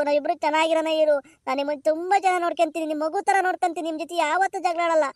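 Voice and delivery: put-on a girl begging her sweetheart to marry her; voiced daughter pleading. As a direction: lovesick girl's voice, pleading.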